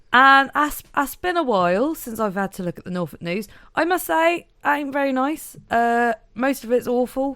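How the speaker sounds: put-on lightly broad Norfolk accent; easing into a Norfolk accent. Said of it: "You're just warming up your Norfolk accent".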